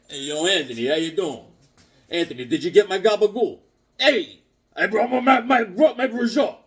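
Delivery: a hint of a Jersey wiseguy; light New Jersey kid voice. Kid calling out to Anthony, light Jersey accent.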